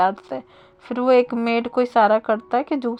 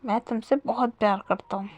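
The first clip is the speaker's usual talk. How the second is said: softer, tender reassurance; lovingly; 4 dB quieter than usual. Acted. Wing gently reassures crying Wang ji, soft and loving. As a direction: soothe him gently, like calming a child. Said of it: "प्यार से बोल रहा था".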